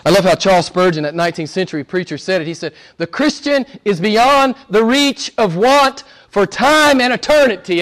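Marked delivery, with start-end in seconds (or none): 3.0-7.8 high, slow declamation; slow, ringing pulpit delivery; emphatic preacher's quotation. Acted. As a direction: proclaim it phrase by phrase. Quotes Spurgeon's preaching grandly.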